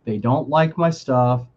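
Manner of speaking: calm shrug-off. Shown as a demonstration. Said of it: "look at it and go".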